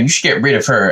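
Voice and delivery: lightly voiced wimp urging blame; a hint of a weaselly suggestion; wimpy tattletale. Adam urging God against Eve, mildly wimpy. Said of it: "wimpy little bitch that he is".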